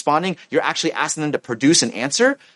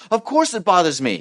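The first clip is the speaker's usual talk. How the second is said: acted irritation; 5 semitones higher than usual. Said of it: "yells at you".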